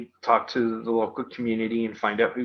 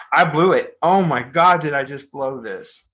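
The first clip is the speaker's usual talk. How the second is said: put-on panicked kid; 3 semitones higher, 6 dB louder than usual. Kid near tears.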